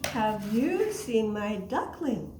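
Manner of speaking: slow, lightly voiced duck question; mother duck asking. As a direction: slowly ask another animal, stressing YOU. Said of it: "she's asking Mister Turtle".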